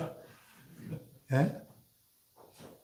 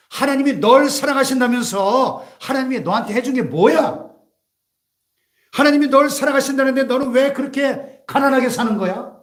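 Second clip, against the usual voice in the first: raised, forceful accusing questions; lightly acted accuser, higher-pitched challenge; accusing devil; 5 semitones higher, 4 dB louder than usual. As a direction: condemn them as the devil would, question after question. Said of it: "우리를 참소하고 정죄합니다".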